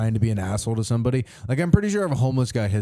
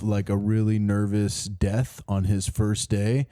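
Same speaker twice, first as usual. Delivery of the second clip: nervous death; 3 semitones lower, slower than usual. Shown as a demonstration. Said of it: "This is my impression of".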